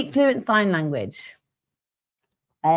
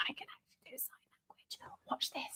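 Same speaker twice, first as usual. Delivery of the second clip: fast secret whisper; hushed aside to the co-host; 27 dB quieter than usual. Real, not acted. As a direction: whisper it so the mic won't catch it.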